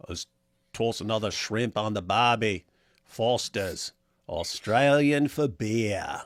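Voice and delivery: hammed-up Australian accent, drawn out. Host imitates locals greeting the returnee, mock Australian accent. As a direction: stretch it like an Australian beer advert. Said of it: "And they're like".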